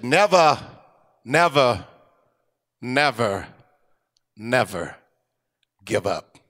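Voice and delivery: Churchill's never, fading; fading repeated never. Retold or imitated. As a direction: let each never fade away. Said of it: "with that incredible English brogue and accent".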